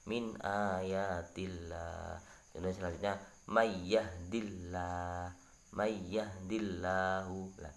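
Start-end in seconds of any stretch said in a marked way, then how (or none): 0.1-2.2 min ayatillah slow with a light lam; slow correct recitation; thin Allah. Shown as a demonstration. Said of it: "dibaca tipis". 3.5-7.5 may yahdillahu slow with a light, thin lam; slow Quran demo, thin lam; thin Allah. Shown as a demonstration. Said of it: "maka dibaca tipis la".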